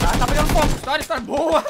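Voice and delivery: loud laughing hype; excited shout. Real, not acted. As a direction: cheer the play with a laugh. Celebrating a fight.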